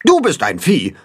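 a touch of goose chatter. A narrator's reading. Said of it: "schnattert Grimm".

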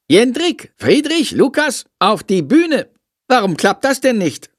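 high, nagging teacher voice; grumbling teacher. A narrator's reading. Frau Schmidt grumbling at her cast, high and nagging. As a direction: scold the cast, exasperated. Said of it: "meckert Frau Schmidt".

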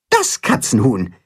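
als Figur stolz ausgesprochen; „Das Katzenhuhn“ augenzwinkernd als Held; verschmitzt. Acted. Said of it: "zwinkert Tim Max zu". („Das Katzenhuhn“ stolz und verschmitzt gesagt)

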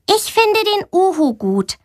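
put-on high, shy child's voice; a timid girl finally speaking up; shy little girl. A narrator's reading. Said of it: "das sonst immer sehr still und schüchtern ist". (schüchternes Mädchen, hohe Stimme)

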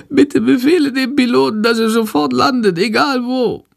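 a frail creature begging; weak bat voice. A narrator's reading. Sick bat begging Jendrik to land the plane, weak and high. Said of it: "Shandors Stimme ist ganz schwach".

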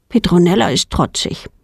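plain reading voice

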